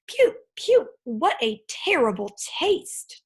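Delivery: dragon chokes and spits, disgusted; choking. A narrator's reading. Dragon spitting out a sour tangerine, choking. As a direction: sputter it out like a bad mouthful. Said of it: "choked the dragon".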